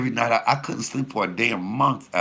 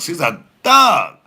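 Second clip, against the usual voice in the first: thug punchline; 10 semitones higher, 12 dB louder, slower than usual. Real, not acted. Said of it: "comic's big punch".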